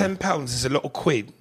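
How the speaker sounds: lightly put-on British accent. Shown as a demonstration. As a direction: try the line as a mock Brit. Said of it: "in a British accent".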